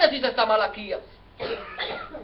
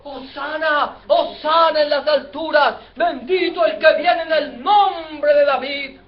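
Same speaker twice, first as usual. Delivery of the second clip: raised, acclaiming shout; crowd shouting; 4 dB louder than usual. Acted. People shouting as Jesus enters, acted crowd acclamation. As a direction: cheer like a crowd hailing its king. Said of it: "y la gente gritando".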